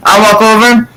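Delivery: high-pitched playful call; stray cat calling out. Retold or imitated. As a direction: lightly act out a cat announcing itself. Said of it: "want you to be like".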